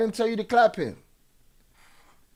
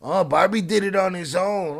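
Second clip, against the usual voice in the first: mocking quote; 4 dB louder than usual. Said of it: "he did it slick today".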